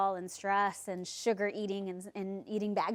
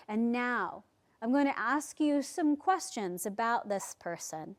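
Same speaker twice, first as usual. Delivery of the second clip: guided meditation. Acted. Leads a guided visualisation.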